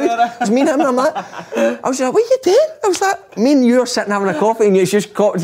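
high, laughing through the telling. Real, not acted. Telling mates about the coffee, helpless with laughter. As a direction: voice climbing as the laughter takes over. Cracking up at own story.

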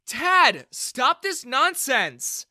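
loud, high command, slowing at the end; stern shout. A narrator's reading. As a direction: cut him off hard. Daughter stops her father.

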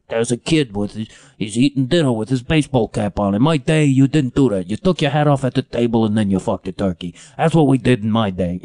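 lightly voiced grumpy old man; a hint of crotchety old-man scolding; old curmudgeon. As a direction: grumble like a mock old-timer. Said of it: "becoming an old curmudgeonly guy".

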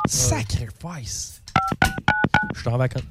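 defeated sigh. Real, not acted. Defeated after failed call.

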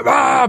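imitated roar of rage; mock outburst. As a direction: burst out like someone losing it. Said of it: "blev verkligen bara".

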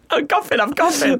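high giggling through words; laughing hysterically. Real, not acted. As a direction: crack up as you talk.

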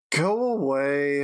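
slow, muffled stranger behind a door; gruff unseen host telling guests to leave. Acted. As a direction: drag out a curt dismissal through the door. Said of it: "a voice from the other side go".

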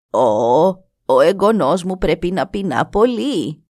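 χαμηλότερη, σοφή φωνή γριάς; καλωσόρισε τον ξένο σαν γιαγιά; γριά γυναίκα. Acted. Η γριά μιλά στον νεαρό. (η γριά καλεί τον νεαρό στη σκηνή της, χαμηλή φωνή γριάς)

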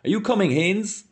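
high-pitched call to a friend; crying out a question, high. A narrator's reading. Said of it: "Mulligan cried".

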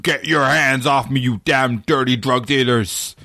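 slow, lightly voiced movie-hero line; a hint of hammed-up Heston; Charlton Heston impression. Mocking Heston for the podcast, slow mild impression. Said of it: "Charlton Heston from nineteen sixty-eight".

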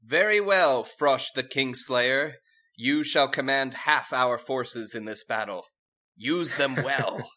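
slow, high royal grant; regal command. Acted. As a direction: bestow it with ceremony.

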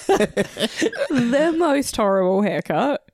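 slow laughing disgust. Real, not acted. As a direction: drag it out laughing.

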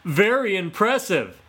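high, loud gloating taunt; mocking laughter. Fox mocking Autumn while laughing, high and loud. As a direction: Fox crowing over his trick. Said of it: "Fox laughed and rolled".

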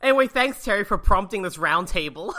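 loud thanks through laughter; real laughter in the voice; laughing thanks. Real, not acted. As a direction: say it while still cracking up. Jokey thanks amid laughter.

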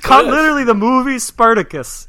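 loud, high-pitched incredulous rant; exasperated ranting. Real, not acted. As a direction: scold the co-host in outraged disbelief. Exasperated correction of wrong movie.

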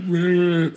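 high mock growl; Rocky-style growl. Co-host acting out Rocky after punching a Russian, mock growl. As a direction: growl it in imitation of a movie boxer. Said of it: "and then going".

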